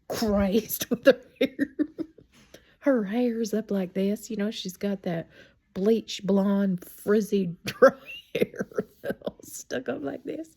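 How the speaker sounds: loud, laughing storytelling; real laughing while talking. Real, not acted. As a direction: crack up as you tell it, voice climbing high. Laughs while describing mother's wild look.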